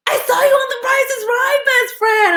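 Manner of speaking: put-on high, far child voice; excited little boy. Little cousin on the phone, high and thrilled. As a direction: squeal it like a thrilled kid. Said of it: "He's like".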